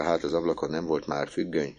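ordinary delivery, nothing marked

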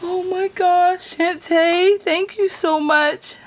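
high, loud, overwhelmed gratitude; real tearful joy, pitched high; about to cry. Real, not acted. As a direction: thank her as if tears are coming. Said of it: "about to cry".

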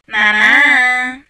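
drawn-out call for mum. Pretend. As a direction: shout for mum to come. Calling the game mother.

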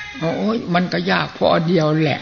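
chuckling through the retold answer; laughing reply. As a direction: answer with a light laugh, amused.

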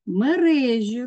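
«Мережі» stressed on the middle syllable, РЕ; наголос на другий склад. Shown as a demonstration. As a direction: lean on РЕ in «Мережі». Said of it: "наголос має бути на другий склад". («Мережі» з наголосом на РЕ)

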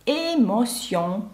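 "Емоціон" slowly, French, ending on nasal ON. Shown as a demonstration. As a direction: draw out "Емоціон" with no hard final N. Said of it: "наприкінці перший носовий «он»".

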